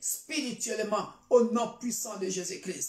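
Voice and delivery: fervent, declarative church prayer; solemn prayer petition; prayer declaration. Real, not acted. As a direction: pray it out firmly over the congregation. Leads congregation in prayer.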